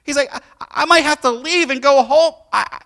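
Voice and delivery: high, loud, choked-up retelling of a crying man; mock tearful, high and loud; imitating someone crying. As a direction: play the barber overcome and tearful. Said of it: "He is crying".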